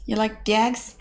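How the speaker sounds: a hint of hammed-up Cockney; mock Cockney. Streamer quoting Pygmalion lines in fake Cockney. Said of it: "Trying to think of other lines".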